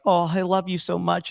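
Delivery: lightly put-on sugary voice; a hint of a fawning suitor; mock sweet suitor. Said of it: "male feminist tries to tell the girl, like, be all sweet".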